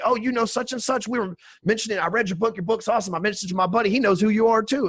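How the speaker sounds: imitating gushing new friends; excited texts. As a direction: read their texts like a thrilled fan. Fans' texts, voiced excitedly.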